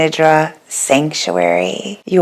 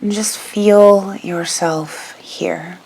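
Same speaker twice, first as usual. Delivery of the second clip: guided meditation. Real, not acted. Begins leading the guided meditation.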